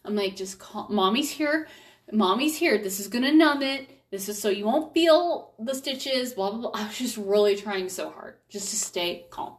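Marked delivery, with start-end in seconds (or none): 0.4-0.9 put-on very soft, close into the child's ear; soft in his ear. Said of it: "I was trying to talk in his ear". 0.9-1.7 put-on higher, soothing reassurance to a hurt child. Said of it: "I was trying to talk in his ear". 2.1-2.8 settled, even reassurance, back in her own pitch; calm repeat. Retold or imitated. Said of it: "I was trying to talk in his ear". 2.8-6.7 soothing. Retold or imitated. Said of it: "I was trying to talk in his ear".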